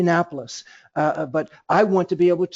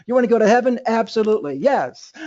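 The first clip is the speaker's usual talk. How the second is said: emphatic yes; 4 semitones higher, faster than usual. Shown as a demonstration. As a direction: pump up the question, answer with full conviction.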